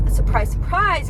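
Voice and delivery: mock amazement, drawn out; sarcastic. Real, not acted. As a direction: ironic told-you-so. Sarcastic aside about canceled babysitting.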